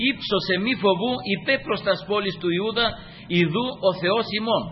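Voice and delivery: lifted, declamatory Bible reading; sustained oratorical recitation; scripture proclamation. Real, not acted. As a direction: read the verse out to the congregation.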